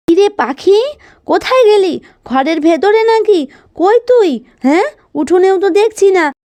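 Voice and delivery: mother calling Pakhi, a little puzzled. Acted. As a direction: look around the yard and call the girl. Mother searching for daughter.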